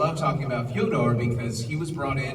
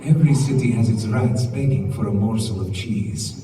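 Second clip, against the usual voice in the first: louder, dark purring villain line; Fyodor villain voice; 6 dB louder than usual. Shown as a demonstration. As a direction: deliver it as a menacing villain. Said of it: "could you say".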